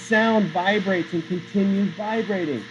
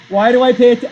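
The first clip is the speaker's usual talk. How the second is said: mock exasperation; 6 semitones higher, 9 dB louder, faster than usual. Teacher mocks student's half work.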